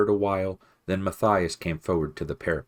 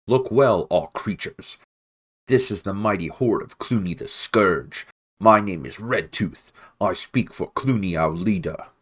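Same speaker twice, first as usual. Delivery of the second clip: loud herald call; 3 semitones higher, 5 dB louder than usual. Acted. Rat herald calling up at walls.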